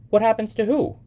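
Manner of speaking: high, loud, rising on "who"; puzzled echo question. A narrator's reading. Young man asking Sybil what she means, puzzled.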